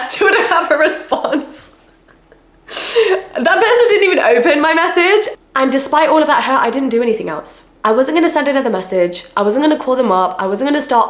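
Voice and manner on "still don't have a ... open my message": higher, laughing through the words; amused disbelief. Real, not acted. Telling of a friend's unanswered message, laughing in disbelief. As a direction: laugh at the absurdity, pitch lifted. Laughs at never getting a reply.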